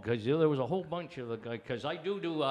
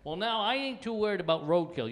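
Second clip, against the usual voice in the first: usual speaking voice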